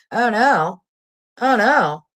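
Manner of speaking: mock alarm. Reading a lawsuit aloud to viewers, mock horror. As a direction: gasp in fake horror.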